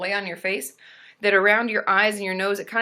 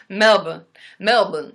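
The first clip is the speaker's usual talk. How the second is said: loud, clipped Aussie "Melbourne"; Australian "Melbourne", as Melb'n with no R; Australian pronunciation; 8 dB louder, slower than usual. Shown as a demonstration. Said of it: "everything is, like, shortened".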